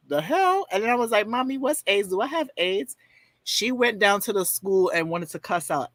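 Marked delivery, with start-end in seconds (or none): 0.1-0.7 mock-shocked mom, much higher pitch; high incredulous question; taken aback. Mother's shocked reaction, acted. 1.3-3.0 lightly voiced little kid, higher pitch; a hint of innocent kid; puzzled child. Voicing himself as a puzzled child.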